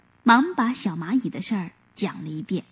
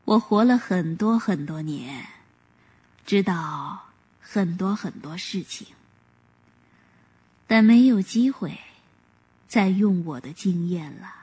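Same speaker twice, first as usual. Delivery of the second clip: sad; 4 semitones lower than usual. Acted. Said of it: "伤心地说".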